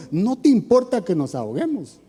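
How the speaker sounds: "¿No te importa que nos ahoguemos?" with the voice pushed up a little. Retold or imitated. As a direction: imitate the disciples raising their voice at their master. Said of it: "Le estaban levantando la voz".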